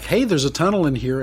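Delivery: mild yell back. Acted. Diego calls back about the tunnel, mild yell. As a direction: call back down a tunnel without a full shout. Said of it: "Diego would yell back".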